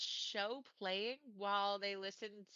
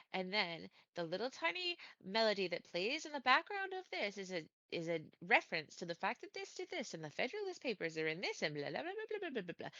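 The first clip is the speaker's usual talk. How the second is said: mock rambling. Imitates own past obsessive rambling.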